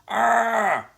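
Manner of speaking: high, loud scream of fright; frightened girls screaming at the mummy; terrified scream. A narrator's reading. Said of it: "screeched the terrified girls".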